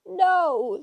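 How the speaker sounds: high, loud screamed denial; indignant screamed reply. A narrator's reading. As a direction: shriek it straight back. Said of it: "screamed Tempest".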